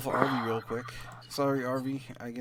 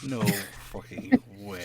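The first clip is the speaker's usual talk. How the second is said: shocked disbelief; 5 dB louder than usual. Real, not acted. Players shocked at failed save.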